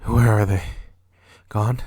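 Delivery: loud urgent call; startled shout; alarmed shout. Acted. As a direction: shout after the vanished witches. Macbeth calls after vanished witches.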